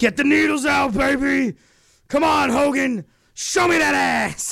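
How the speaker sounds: rough, slow, slightly high voice. Imitating Vince McMahon urging Hogan backstage: Vince McMahon impression. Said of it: "remember what Vince used to do with Hogan".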